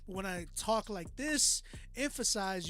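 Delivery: animated, emphatic demo of vocal dynamics; dynamic emphasis. Shown as a demonstration. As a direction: lean on THIS with a lift. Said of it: "you hear dynamics".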